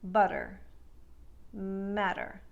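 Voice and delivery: butter with a soft flapped D; American butter, matter. Shown as a demonstration. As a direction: let the T soften to a D. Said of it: "will take these words and say".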